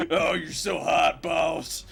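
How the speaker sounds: slow, loud southern drawl, hammed up; mock-flirting with the boss in a southern accent. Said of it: "I get a southern accent and a deep voice".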